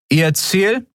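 guard questioning. A narrator's reading.

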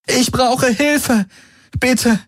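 high, slow desperate plea; pleading. Acted. Kirai begging the surviving soldiers for help, high desperate plea. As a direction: beg for help with everything left.

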